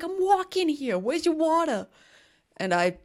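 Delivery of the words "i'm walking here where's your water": high, brash New York yell; New York tough guy. Retold or imitated. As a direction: pick a fight with passing cars. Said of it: "I'm walking here" ... New York City movie".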